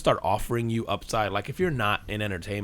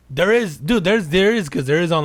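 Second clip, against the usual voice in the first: emphatic; 7 semitones higher, 6 dB louder than usual. Real, not acted. Emphatic insistence.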